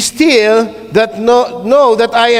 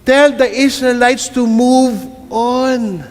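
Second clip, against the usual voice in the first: solemn voice of God; slower than usual. Acted. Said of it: "Then the Lord said to Moses".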